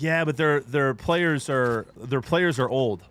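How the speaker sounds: slow, dragged-out dopey voice; mocking dopey in-law. In-laws mocked to the stream in slow dopey voice. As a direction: lightly play the clueless fan, stretched out. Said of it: "they're like".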